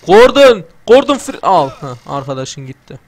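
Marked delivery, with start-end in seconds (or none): 0.1-1.7 loud high call of the name. Acted. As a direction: call out loudly across the room. Calling out to character. (oyun karakterine seslenen oyuncu, yüksek sesle çağırış)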